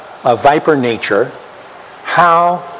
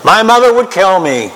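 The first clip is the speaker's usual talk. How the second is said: emphatic outburst; 7 semitones higher, 4 dB louder than usual. Shown as a demonstration. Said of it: "maybe your mother's not like my mother".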